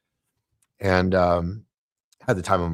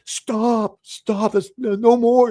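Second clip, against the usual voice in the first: higher, mock inner yell to stop; 7 dB louder, much slower than usual. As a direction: shout at yourself in your head to quit talking. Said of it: "actually, I'm yelling".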